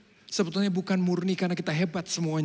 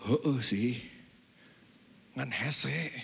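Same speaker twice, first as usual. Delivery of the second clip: inner thought; 4 semitones lower, 6 dB quieter, much slower than usual. Retold or imitated. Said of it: "Saya pikir".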